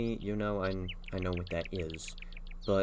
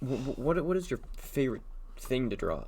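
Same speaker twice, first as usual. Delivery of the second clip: halting through hiccups; talking with the hiccups; 5 semitones higher, faster than usual. Real, not acted. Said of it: "I have the hiccups".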